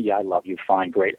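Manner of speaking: mock husband getting it over with; perfunctory man. Man answers his date's love question, brushing it off. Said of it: "we wanna get through as quickly as possible".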